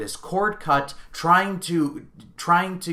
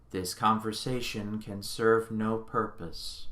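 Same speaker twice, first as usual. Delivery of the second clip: cold computer voice; 3 semitones lower, 6 dB quieter than usual. Retold or imitated. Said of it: "when Hal says".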